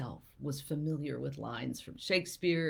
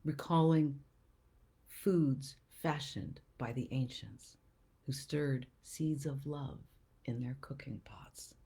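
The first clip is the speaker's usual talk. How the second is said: slow, measured recital with pauses between phrases; poetry reading; slower than usual. Acted. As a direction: read it as verse, letting each image land. Reads a poem aloud.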